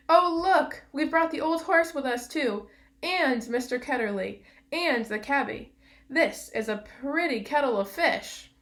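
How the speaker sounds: high, loud exclamation, easing as it goes; crying out. A narrator's reading. Polly discovering who came along with them, crying out. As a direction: burst out in astonished dismay. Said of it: "Polly cried out".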